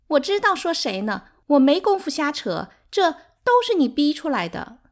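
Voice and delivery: high, loud, wounded comeback; defiant retort. A narrator's reading. Sixth wife blaming her rival for provoking her, defiant. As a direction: throw the blame back at her shrilly.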